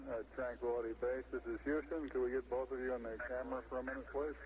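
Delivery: crackly military radio. Real, not acted. Houston calling over the radio.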